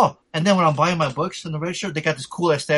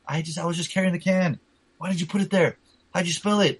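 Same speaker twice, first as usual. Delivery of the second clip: higher-pitched mock scolding; pitched-up, incredulous retold questions; retold exasperated scolding; 5 semitones higher than usual. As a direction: scold a clumsy friend, retelling it. Retold scolding of clumsy friend.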